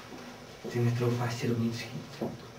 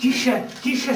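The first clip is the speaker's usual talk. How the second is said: urgent hush; 11 semitones higher, 5 dB louder than usual. Acted. Hushing her wailing.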